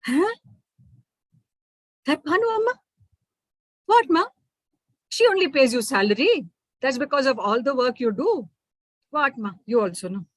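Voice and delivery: lightly voiced child, incredulous; a daughter doubting her ma; surprised little girl. Manju questioning mother.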